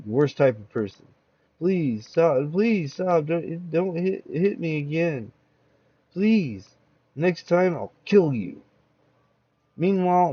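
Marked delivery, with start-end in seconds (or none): 1.6-8.6 higher, rising panic, begging; desperate pleading. Acted. Beaten victim begs attacker to stop, higher and desperate. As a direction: plead to make the blows stop.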